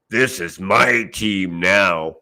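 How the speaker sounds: slow mock heavy Russian accent; lightly put-on Russian accent. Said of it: "imagine this in a heavy Russian accent".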